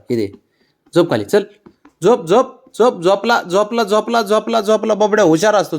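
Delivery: high, loud singsong coaxing; coaxing pet. Real, not acted. Owner coaxing her dog to lie down, singsong. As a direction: lull the dog down with repeated high coos.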